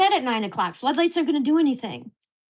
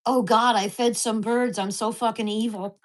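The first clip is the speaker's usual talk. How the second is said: sarcastic retort; 3 dB louder than usual. Retold or imitated. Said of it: "I said that to her".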